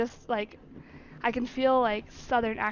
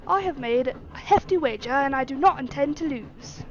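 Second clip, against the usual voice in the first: louder, lightly attempted British accent; a firm master with a hint of British accent; 5 dB louder than usual. Master telling servant of his wager, British accent. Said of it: "doing a British accent".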